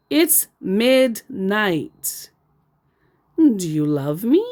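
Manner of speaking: ordinary talk, nothing marked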